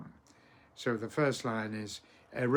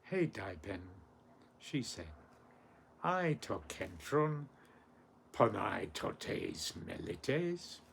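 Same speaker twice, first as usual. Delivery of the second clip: measured Ancient Greek verse with pauses; poem recitation. Acted. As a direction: recite it through, lifting the cries.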